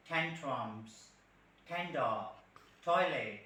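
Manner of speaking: Western t, a little "tha"; aspirated Western t. Shown as a demonstration. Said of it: "So little bit tha".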